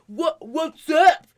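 loud, slow, drawn-out greeting; mock loud hail; little Cross impression. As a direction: stretch it out and lift it high at the end. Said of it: "here's little Cross".

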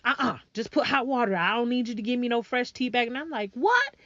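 ordinary talk

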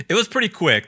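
ordinary talk, nothing marked

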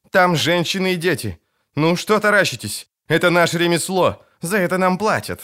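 a lightly voiced captain scolding her soldiers; stern woman captain. A narrator's reading. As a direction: remind them it's their trade. Captain shames staring soldiers.

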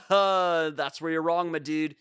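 smug bro correcting them; Coachella guy. Acted. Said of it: "Coachella guy".

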